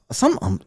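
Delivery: SOMETIMES with the middle T left out; "some-imes", no T in SOMETIMES; dropped T. Shown as a demonstration. Host shows how he skips Ts, dropping the T in SOMETIMES. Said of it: "I don't put teas".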